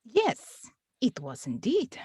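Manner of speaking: lightly put-on Russian accent as the clerk; a deliberately bad Russian accent, only hinted at. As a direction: clerk addressing the chairman in a faint mock Russian accent. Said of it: "bad Russian accents".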